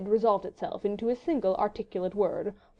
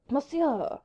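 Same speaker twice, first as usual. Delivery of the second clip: put-on French accent; 6 semitones higher than usual. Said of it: "protested the Vicomte".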